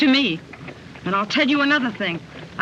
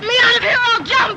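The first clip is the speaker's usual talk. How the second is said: loud, high-pitched threat; frantic shouting; 9 semitones higher, 6 dB louder than usual. Acted. Trapped passenger threatens to jump, shouting. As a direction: yell it as a threat.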